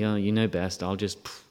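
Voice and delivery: soft, limp resignation; lightly mocked passive sigh. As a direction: play the doormat, quiet and meek. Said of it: "He doesn't sit by passively".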